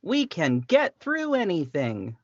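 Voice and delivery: earnest anime hero voice; anime protagonist voice. Pretend. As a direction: heroic protagonist declaration. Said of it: "I'm just using anime protagonist voice".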